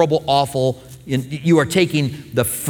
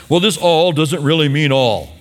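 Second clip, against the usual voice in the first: mock objector. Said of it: "people that like to put restrictions on this".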